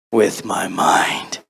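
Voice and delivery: slow, breath-only whisper; drawn-out dramatic whisper; mock-dramatic tagline. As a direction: whisper it slowly like a spoof trailer. Mock-dramatic tagline for silly video.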